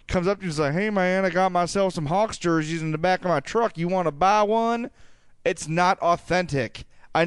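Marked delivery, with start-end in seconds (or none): 0.7-4.9 put-on southern accent. Guy in a bar hawking jerseys from his truck, Southern accent. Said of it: "my southern accent".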